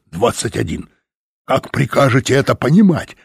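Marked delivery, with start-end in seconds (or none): 1.5-3.2 louder curt bark; harsh barking commands. A narrator's reading. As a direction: snap the question out. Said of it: "рявкнул он". (резкий лающий окрик)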